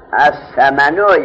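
slow, loud recitation of the Arabic text; reciting the text. Shown as a demonstration. Teacher reading the Arabic book line aloud to students, slow and loud. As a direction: read each word out slowly and firmly. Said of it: "نحو".

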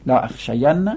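sing-song drill of the negated forms; rhythmic classroom chanting of verb forms; paradigm recitation. Acted. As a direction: chant each form with a lilt.

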